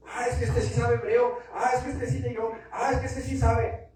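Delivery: singled-out, repeated gushing, gently mocked; mock awe. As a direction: parrot the gullible admirers. Mocks easily impressed people.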